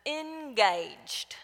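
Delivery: mild Southern "engaged", stretched with an extra syllable; lightly imitating a Southern coach's "engaged"; Southern trainer drawl. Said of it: "he kind of adds a Y and an extra syllable".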